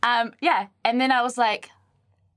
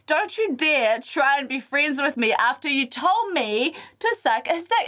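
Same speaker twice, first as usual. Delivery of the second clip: acted-out indignant scolding, pitched up; loud telling-off; 6 semitones higher, slower than usual. Woman publicly shaming a rude rugby player, mock indignant telling-off. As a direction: re-enact a public dressing-down, drawing out the warning. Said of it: "I was so loud about it".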